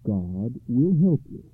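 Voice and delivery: calm, deliberate counsel; lightly voiced serene rabbi. A narrator's reading. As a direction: reassure him without any hurry. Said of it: "replied the rabbi serenely".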